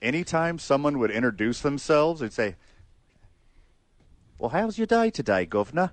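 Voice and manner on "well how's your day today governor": a light mock British accent on a friendly greeting. Co-host imitates strangers mistaking Fred for British, light mock British accent. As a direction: greet him like a Brit, only half committing. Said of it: "I'm not British".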